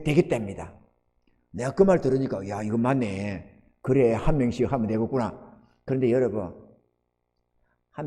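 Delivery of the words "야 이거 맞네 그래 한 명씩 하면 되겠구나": quiet realization. Retold or imitated. Recalls own quiet realization.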